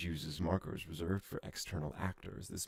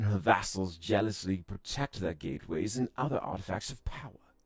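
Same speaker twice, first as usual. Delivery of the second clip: louder, grand alien storyteller; alien lore speech; 5 dB louder than usual. Acted. Alien voice telling the fallen empire's history, louder and grand. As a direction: proclaim the old empire's fall.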